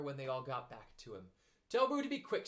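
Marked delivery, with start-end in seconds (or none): 1.7-2.5 calling out. A narrator's reading. Eeyore complaining.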